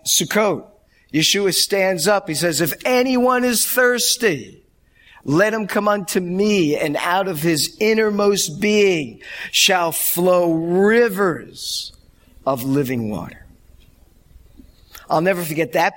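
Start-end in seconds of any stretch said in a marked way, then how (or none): 2.6-13.4 raised, higher proclaiming voice; preacher's proclamation. Retold or imitated. Yeshua calling out to the festival crowd, proclaiming. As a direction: call it out to the crowd at the feast.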